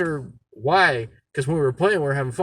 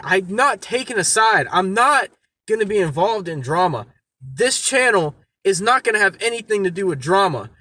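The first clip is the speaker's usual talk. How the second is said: angry; 4 semitones higher than usual. Real, not acted. Angry rant at drama makers.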